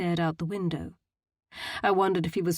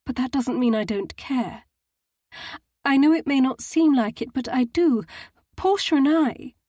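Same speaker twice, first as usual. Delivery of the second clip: quaking voice; 7 semitones higher, 6 dB louder than usual. A narrator's reading. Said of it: "her voice quaking".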